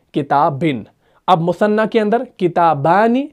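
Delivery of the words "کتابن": کتابن ending in "-bin", lower and falling. Shown as a demonstration. Teacher closing the three cases, -in ending on کتابن. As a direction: say کتابن as kitabin, short i before the n. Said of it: "تینوں حالتیں کون سی ہیں؟".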